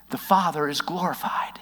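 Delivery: unvoiced hush; whispered. Real, not acted. Preacher whispering the point to the congregation. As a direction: whisper it like a secret.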